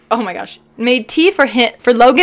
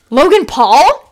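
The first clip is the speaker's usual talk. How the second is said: roar; 3 semitones higher, 4 dB louder, slower than usual. Acted. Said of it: "he roared".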